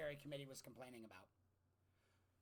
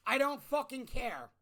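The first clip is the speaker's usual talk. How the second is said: 1 annoyed; 7 semitones higher, 11 dB louder than usual. Real, not acted. Angry dismissal.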